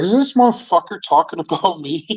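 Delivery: half-laughing disbelief; amused disbelief; incredulous laugh. Retold or imitated. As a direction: laugh it out, not believing he means you. Incredulous at the veiled jab.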